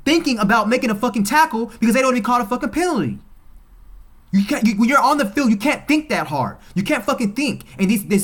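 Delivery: loud, high, angry rant about the refs; furious rant. Real, not acted. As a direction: shout it out, fed up with the refs. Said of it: "I am so pissed".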